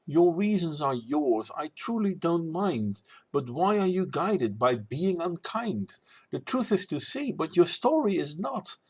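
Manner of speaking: lilting rhymed rebuttal; verse recital. Acted.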